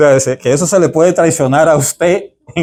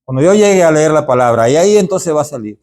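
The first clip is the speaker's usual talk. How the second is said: high, hammed-up voice of a careless reader; mock lazy excuse; 7 semitones higher, faster than usual. Teacher mocking a reader who relies on inspiration, high and hammed-up. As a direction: mimic someone shrugging off preparation. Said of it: "Usted no puede decir".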